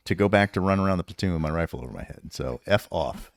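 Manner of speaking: retold cocky taunt; cocky defiance. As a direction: sass the sergeant, enjoying the game. Taunting sergeant through door.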